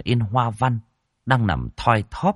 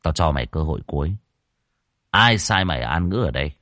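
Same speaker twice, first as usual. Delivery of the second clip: gritted threat; 4 semitones lower, faster than usual. Acted. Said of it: "mà gằn giọng".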